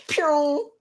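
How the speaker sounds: drawn-out "pew" of something flying off; imitated whoosh. Coach showing laid-off staff flying out, imitated whoosh. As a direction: make the sound of people shot away.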